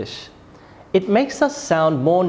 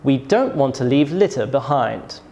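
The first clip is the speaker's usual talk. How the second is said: "behind" falling at the end; falling statement intonation; 3 semitones lower than usual. Shown as a demonstration. Teacher demonstrates a statement, falling tone on "behind". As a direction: let the voice drop on "behind". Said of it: "Statements often have a falling tone".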